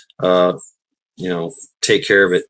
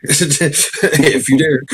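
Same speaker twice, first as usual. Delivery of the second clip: spooky drawn-out dare; 4 semitones higher, much slower than usual. Pretend.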